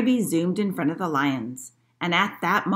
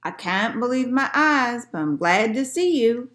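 higher, raised character voice; storybook man, gladly amazed; rescued hunter; 5 semitones higher, 4 dB louder than usual. A narrator's reading. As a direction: exclaim with relief as the rescued hunter. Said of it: "said the man on the beach".

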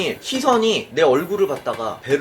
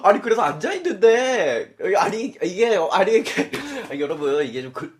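ordinary delivery

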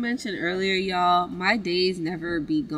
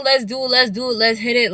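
excited; 5 semitones higher, 6 dB louder, faster than usual. Real, not acted. Hyping up the shopping trip.

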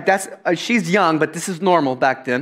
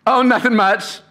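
breezy nonchalance; 2 semitones higher than usual. Retold or imitated. Mary breezily confesses pregnancy.

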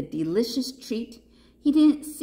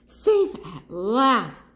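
slow, drawn-out relief; relieved sigh; 2 semitones higher, 5 dB louder, slower than usual. A narrator's reading. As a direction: let it out slowly, with relief. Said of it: "sighed Papaya".

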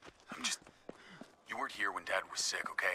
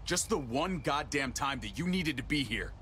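bitter reproach; 6 semitones higher than usual. Acted. Acted quarrel between brothers.

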